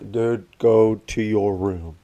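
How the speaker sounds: slow, spaced-out order; firm dad. Retold or imitated. Dad ordering his joking son upstairs, slow and firm. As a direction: repeat it slowly, word by word.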